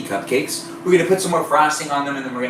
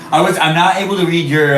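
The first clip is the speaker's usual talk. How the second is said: laughing; 3 semitones higher, 5 dB louder than usual. Real, not acted. Can't read a chat username.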